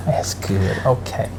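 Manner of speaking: hushed storyteller impersonation, fading as if not to wake anyone; Tabitha Brown impression. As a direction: confide gently in the viewers, with lilting little check-ins. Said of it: "That's how she talks".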